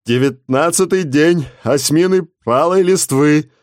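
slow, high hoarse cry; cracked proclamation. Acted. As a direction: call it out, voice cracking. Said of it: "глухим надтреснутым голосом выкрикивал". (глухой надтреснутый выкрик)

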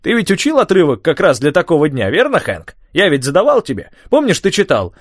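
high, lively recital with shivers; old man reciting. A narrator's reading. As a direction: declaim the verse through the cold. Tom reciting Shakespeare, freezing.

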